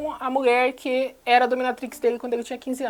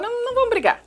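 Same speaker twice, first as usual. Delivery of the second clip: much higher put-on voice for Christian; mocking high voice; 12 semitones higher, faster than usual. Vlogger mocking Christian brushing off the fight, high mock voice. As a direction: squeak it out to mock him.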